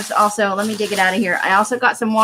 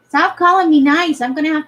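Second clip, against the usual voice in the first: louder, higher playful protest; mock protest; 5 semitones higher, 4 dB louder than usual. Real, not acted. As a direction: protest loudly but playfully.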